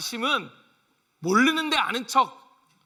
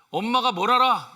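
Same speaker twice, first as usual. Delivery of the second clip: scornful retort to mom, louder; dismissive teen; 5 dB louder than usual. Retold or imitated. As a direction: brush off mother with contempt. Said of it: "무시하지 않으면".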